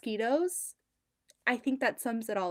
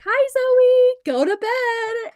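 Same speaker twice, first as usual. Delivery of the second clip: much higher, louder sing-song scold, slow; boss scolding Zoe; 13 semitones higher, 11 dB louder, much slower than usual. Retold or imitated. Boss teasing Zoe on the live video, high sing-song. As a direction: coo it like a playful boss. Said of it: "so she was like".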